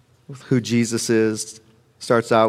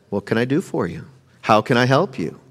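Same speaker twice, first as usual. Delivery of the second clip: gentle, helpful offer; polite, not rude; 3 semitones lower, 4 dB quieter than usual. Acted. Jesus to two followers, gently offering help. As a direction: ask softly, offering help. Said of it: "I don't think he was being rude".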